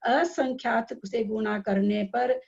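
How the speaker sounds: slow, measured reading of a text. Shown as a demonstration. Teacher reading the rule out for the class, slowly. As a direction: take each term slowly and deliberately. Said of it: "मैं बहुत धीरे धीरे पढ़ रही हूँ".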